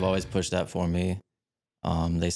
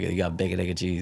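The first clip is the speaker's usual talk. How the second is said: bacon egg and cheese run together; said quick; 3 semitones lower than usual. Shown as a demonstration. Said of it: "You gotta say it quick".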